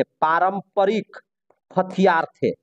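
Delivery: drawn out, pausing between words; slow dictation. Real, not acted. Teacher repeating the answer for students to write, slow dictation. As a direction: repeat it slowly, word by word.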